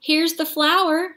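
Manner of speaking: high, slow, proud shout; excited shout. A narrator's reading. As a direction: call it out triumphantly. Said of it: "shouted Jack".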